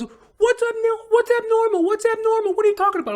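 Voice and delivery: frantic squeal, pleading it's his bike; panicky bike thief. Retold or imitated. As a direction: mimic a high panicky guy caught at the lock. Thief indignant at being questioned.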